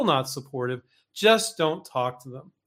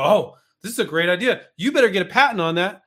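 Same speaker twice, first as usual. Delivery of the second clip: lightly acted gushing encouragement; a touch of eager, louder family approval; overly positive relative; 3 semitones higher, 5 dB louder than usual. Family member cheering on a new idea, mildly gushing. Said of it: "overly positive family will say".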